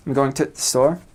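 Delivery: "the" cut down to a "t" sound; Midlands-style "the", reduced to t; northern "the". Shown as a demonstration. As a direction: say "the store" as "t' store". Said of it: "they say t".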